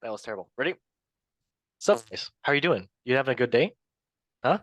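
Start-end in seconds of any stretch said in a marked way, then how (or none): 1.8-4.6 a loose, chuckling take on Seth Rogen; Seth Rogen impression. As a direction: breaks into laughter mid-impression. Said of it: "let me do Seth Rogen".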